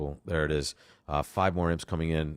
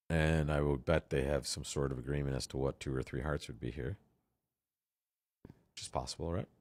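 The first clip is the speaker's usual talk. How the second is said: talking with gum in mouth; words round a wad of gum; chewing gum; 6 semitones lower, 5 dB quieter than usual. Real, not acted. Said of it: "this gum in my mouth the whole time".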